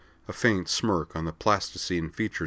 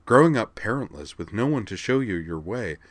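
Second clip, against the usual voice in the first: mocking imitation; 3 semitones higher than usual. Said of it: "mocking imitation".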